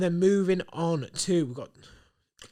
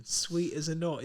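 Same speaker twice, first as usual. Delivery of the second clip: slow savouring; 2 semitones higher, 4 dB quieter, slower than usual. Shown as a demonstration. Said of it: "I love that saying".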